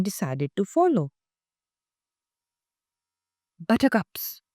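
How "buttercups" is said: mild mock bellow of a cow; lightly voiced cow calling out. A narrator's reading. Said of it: "bellowed the cow".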